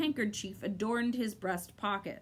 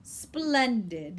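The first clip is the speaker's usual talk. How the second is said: happy; 4 dB louder than usual. A narrator's reading. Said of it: "he said happily".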